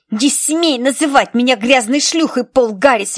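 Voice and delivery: put-on girl screaming while fighting; shrieking. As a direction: scream it at the boy. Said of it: "визжала она".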